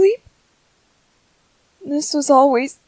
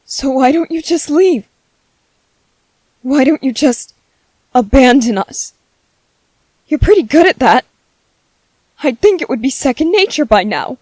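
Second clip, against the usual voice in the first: bitter anger; 5 semitones lower than usual. Acted. Bitter tirade at the ghost.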